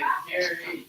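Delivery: "scary" cried out high with a rise; hammed-up frightened yelp; mock scared cry. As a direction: squeal it like a spooked kid. Mock fear about scary people.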